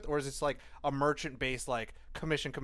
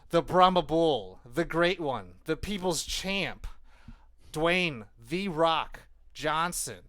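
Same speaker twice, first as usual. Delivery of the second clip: slow, drawn-out nickname roll call; ring announcer hype; 2 semitones higher, 5 dB louder, slower than usual. Acted. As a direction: build it up like a wrestling announcer. Hype introduction of wrestler's nicknames.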